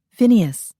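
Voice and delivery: happy shout of greeting; calling out. Acted. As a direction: call across the room to a friend. Calling out to friend.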